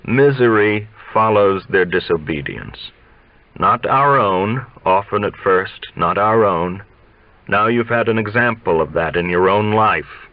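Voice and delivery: a hint of a preachy old teacher; old coach lecturing.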